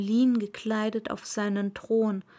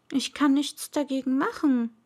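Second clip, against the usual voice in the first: confused; 3 semitones higher than usual. Acted. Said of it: "ganz verwirrt".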